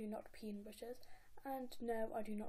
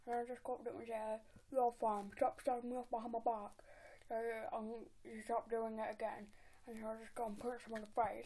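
nasal chav voice, street slang; chav impression. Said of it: "that was my impression of a chav".

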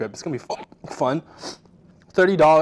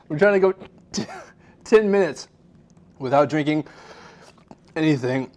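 teary, strained from the heat; talking through burning spice; mouth burning from spicy food. Real, not acted. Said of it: "wipe my tears away".

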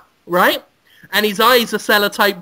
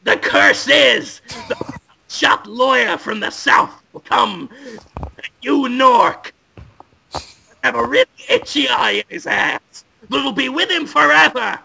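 ominous wizard voice; 3 semitones higher than usual. Acted. An old wizard pronouncing the curse on the lawyer, ominously.

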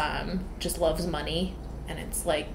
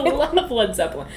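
quoting a movie line; 5 semitones higher, 3 dB louder than usual. Retold or imitated. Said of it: "most finely executed joke".

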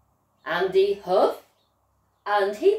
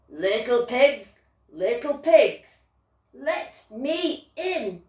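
wolf calling. Acted. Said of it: "cried the wolf".

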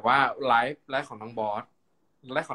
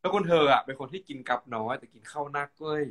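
chatty kham mueang storytelling; Northern Thai gossip; Northern Thai dialect. Shown as a demonstration. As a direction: tell it in Chiang Mai dialect. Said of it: "แบบนี้เป็นต้น ภาษาเมืองนะเจ้า".

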